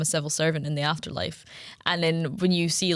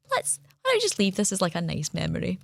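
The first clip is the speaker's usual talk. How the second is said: gentle persuasion; 3 dB quieter than usual. Retold or imitated. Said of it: "you were like".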